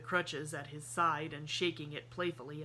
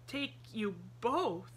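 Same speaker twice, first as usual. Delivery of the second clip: dazed; 6 semitones higher, 4 dB louder, slower than usual. A narrator's reading. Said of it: "repeated the man dazedly".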